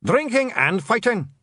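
high, slow, loud cry; shouted answer. Acted. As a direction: shout it like a gang's motto. Blue men shout their answer together.

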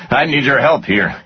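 high, urgent appeal; yelled plea. A narrator's reading. Boss begging the departing man for help, yelled plea. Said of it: "Stone yelled".

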